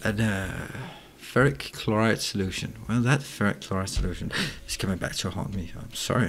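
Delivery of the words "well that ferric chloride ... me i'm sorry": speaking through hiccups; hiccuping. Real, not acted. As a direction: hiccups breaking up the words. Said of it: "I've got hiccups".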